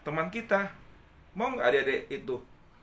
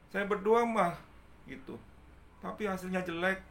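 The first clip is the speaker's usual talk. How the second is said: put-on higher, whiny child voice; complaining child; 6 semitones higher, 4 dB quieter than usual. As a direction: play a sad kid showing mum a bad report card. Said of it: "Seorang anak ini melapor ke ibunya". (anak mengadu ke ibunya, suara anak kecil lebih tinggi merengek)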